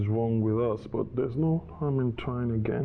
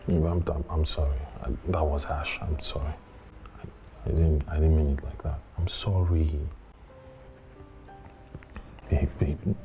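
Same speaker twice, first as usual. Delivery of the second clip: contrite apology; 4 semitones lower than usual. Acted. Husband apologising after harsh words.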